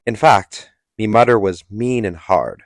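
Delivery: broad mock British accent; deliberately offensive put-on British accent; Andrew Tate. Telling Andrew Tate's tale of a hard mother, mock British accent. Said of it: "This is really offensive".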